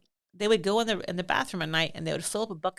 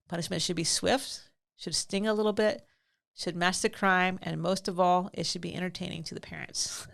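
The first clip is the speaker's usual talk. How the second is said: slow and deliberate, like dictation for notes; dictating slowly. Shown as a demonstration. To listeners taking notes, slow dictation. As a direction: spell it out slowly so they can write. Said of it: "if you're taking notes right now, write this down".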